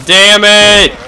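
mock dramatic villain despair; hammed-up villain rant. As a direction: play the foiled villain, overacted. Mock villain plan failing.

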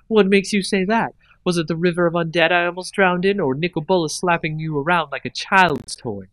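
mock surprise. A narrator's reading. Liliana mocking Gideon after the defeat, sarcastic mock surprise. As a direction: needle him with fake astonishment. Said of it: "mock surprise".

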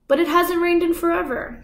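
put-on worried girl blurting it out; startled child's fearful outburst; alarmed. A narrator's reading.

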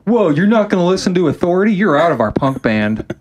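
high, sneering mock bandmate, slowing at the end; sarcastic mock punk bandleader. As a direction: parody a preachy punk band boss. Mocking band firing member.

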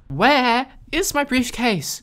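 high, slow, over-clear words; exaggerated over-clear. Real, not acted. Player mockingly overenunciating to the dense robot.

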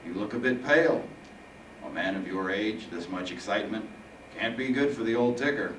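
phlegmy, taunting Reaper; phlegmy mock concern. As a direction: needle him through a throat of phlegm. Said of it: "the phlegmy voice responded".

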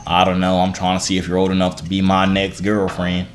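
put-on country-accent flirting.

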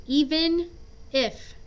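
"Even" ending on a clear n before "if"; clear N sound. Shown as a demonstration. Teacher reminding students not to drop the N. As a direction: separate "Even" and "if" to show the n. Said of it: "Don't forget the N sound".

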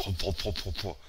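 laughing. Real, not acted. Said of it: "Ich kann nicht mehr reden".

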